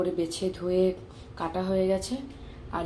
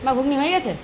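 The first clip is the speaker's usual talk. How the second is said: calling out; 7 semitones higher, 5 dB louder than usual. Real, not acted. Calling to mother.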